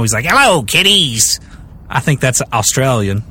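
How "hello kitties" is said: drawn-out mock Irish greeting; slow, shaky-accented stab at Irish; Irish Crypt Keeper attempt. Podcaster guessing how an Irish Crypt Keeper greets people, attempted Irish accent. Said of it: "how does Hello Kitty sound in Irish".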